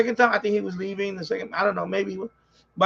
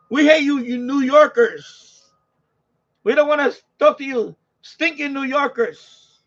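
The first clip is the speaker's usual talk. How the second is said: slow, high, sneering put-on voice; drawn-out mocking jeer; mock Maryland hater; 5 semitones higher, 5 dB louder, slower than usual. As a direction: ham up a snooty local who hates New Yorkers. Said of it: "We hate New Yorker virus".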